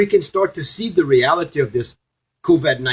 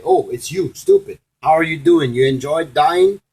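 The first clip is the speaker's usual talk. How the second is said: mocking Saint Peter; 3 semitones higher than usual. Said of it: "and Saint Peter said".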